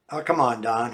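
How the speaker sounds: a hint of coaxing; lightly voiced pleading friend; mild pleading. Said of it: "he's pleading with me".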